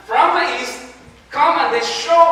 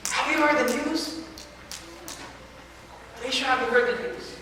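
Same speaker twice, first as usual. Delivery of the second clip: excited villagers; 5 semitones higher than usual. Acted. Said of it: "a bunch of people come and say".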